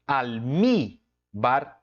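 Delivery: "almíbar" with the stress on mí; stressed middle syllable. Shown as a demonstration. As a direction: lean on the mí of "almíbar". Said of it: "é a sílaba tônica".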